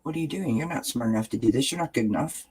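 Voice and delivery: a hint of the mean inner voice, hushed and fast; lightly voiced inner critic muttering doubts. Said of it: "that negative voice starts pushing back and telling you".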